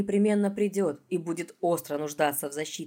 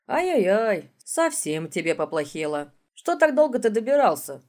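sympathetic; 3 semitones higher, 4 dB louder than usual. Acted. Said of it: "он участливо произнёс".

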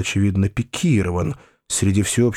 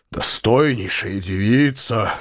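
touched; slower than usual. Acted. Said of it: "проговорил он с умилением".

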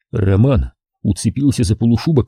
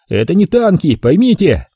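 настойчиво; 7 semitones higher than usual. A narrator's reading. Самоходчик пытается втолковать.

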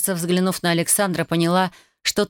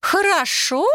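much higher, cried-out disbelief; shocked outcry; 11 semitones higher, slower than usual. A narrator's reading. Old Dusya cries out at Alexander, much higher and aghast. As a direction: shriek the word back in horror. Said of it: "вскричала Дуся".

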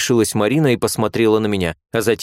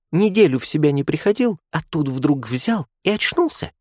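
put-on higher girlish voice, a touch of a giggle; amused young nurse; 7 semitones higher than usual. A narrator's reading. Nurse teasing a friend at the bedside, lightly amused. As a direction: tease it lightly, with a hint of laughter. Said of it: "спросила другая со смешком".

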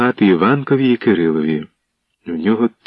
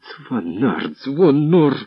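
frantic shouting; 5 semitones higher, much slower than usual. A narrator's reading. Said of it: "вигукував у нестямі Кирило".

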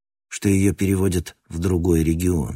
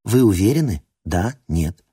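metallic robot voice. Acted. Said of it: "чужим металлическим голосом".

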